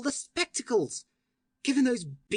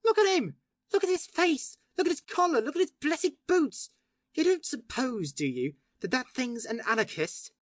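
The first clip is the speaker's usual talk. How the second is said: beside himself; 4 semitones higher than usual. A narrator's reading. Syme pointing at the doctor, frantic high shouting. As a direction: shout it, wild with delight.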